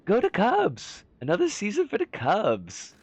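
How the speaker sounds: high, badly faked Chicago fan voice; attempted Chicago accent. Streamer jokingly cheers the Cubs, attempted Chicago accent. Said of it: "I can't do a Chicago accent, unfortunately".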